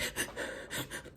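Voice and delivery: voiceless, hushed mock sobs; imitated sobbing. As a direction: imitate someone crying in quiet little bursts. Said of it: "like, crying".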